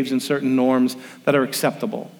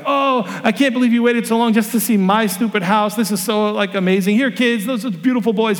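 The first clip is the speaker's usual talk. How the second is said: higher, gushing grateful neighbour; a touch of a delighted homeowner; cheerful homeowner; 5 semitones higher than usual. Retold or imitated. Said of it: "And the guy's like".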